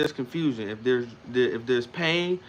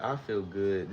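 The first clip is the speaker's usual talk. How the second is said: unconvinced; 4 semitones lower, 4 dB quieter, slower than usual. Shown as a demonstration. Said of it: "in a way that you didn't even mean it".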